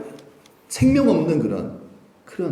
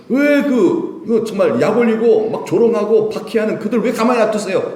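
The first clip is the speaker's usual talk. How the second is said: high, worked-up complaint; exasperated demand for action; indignant questioning; 7 semitones higher, 4 dB louder than usual. Acted. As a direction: pile up the grievances, pitched up. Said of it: "인간의 생각 아닙니까".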